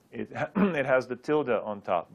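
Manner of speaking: usual speaking voice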